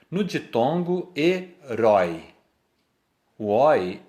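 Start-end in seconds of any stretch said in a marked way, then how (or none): 1.1-2.3 "herói" split slowly, with "rói" as one syllable; découpage en syllabes. Shown as a demonstration. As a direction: say "herói" slowly, keeping "ói" together. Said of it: "elas ficam na mesma sílaba".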